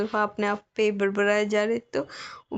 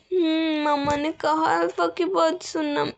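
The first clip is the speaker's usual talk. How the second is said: naive little bride, higher voice; innocent bride; 5 semitones higher than usual. Acted. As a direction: say it like a timid child quoting mom. Omega apologizes. (मासूम, ऊँची आवाज़ में डरी हुई दुल्हन)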